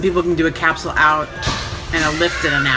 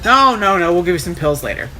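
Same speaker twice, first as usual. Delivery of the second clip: dismissive; 2 semitones higher, 4 dB louder than usual. Retold or imitated. Staff brushing off her request.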